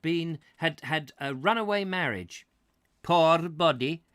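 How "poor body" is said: higher-pitched put-on Scots; hammed-up Scottish storyteller; Scottish accent. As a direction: tell the tale as the Scottish priest. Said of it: "I can't do the accent very well".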